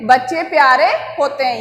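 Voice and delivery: "बच्चे प्यारे होते हैं" read straight through, ending on a fall; no pause midway. Shown as a demonstration. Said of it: "यहाँ बीच में कहीं नहीं रुके हैं".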